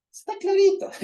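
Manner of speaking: "Está clarito" flung out high and loud; emphatic exclaim. Real, not acted. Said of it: "exclaims obvious".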